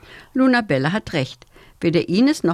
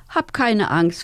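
soothing; 2 semitones higher, slower than usual. Acted. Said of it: "versucht sie Lisa zu beruhigen".

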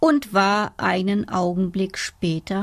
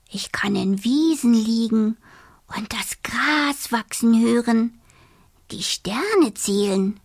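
dreamy whisper. Acted.

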